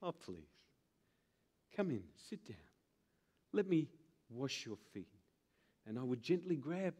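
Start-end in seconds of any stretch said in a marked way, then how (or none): 0.0-5.1 much lower and softer fake-sweet welcome; insincere smile. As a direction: smile falsely as you invite him in. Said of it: "Pappy calls that the insincere smile".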